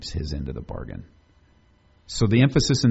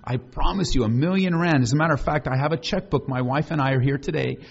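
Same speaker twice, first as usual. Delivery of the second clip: boastful promiser; 6 semitones higher than usual. Pretend. Hammed-up fake promise of riches.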